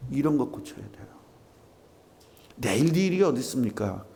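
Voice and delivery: usual speaking voice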